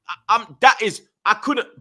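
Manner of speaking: stammering, words catching; stuttering. Real, not acted. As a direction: stutter over the start. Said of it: "bro, I'm stuttering".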